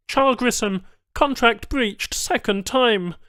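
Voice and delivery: a cold alien official; alien tech voice. Acted.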